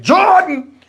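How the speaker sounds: high, drawn-out "Jordan" cry; imitated showy holler; just like that. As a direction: call out the player's name mid-jump. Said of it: "just like that".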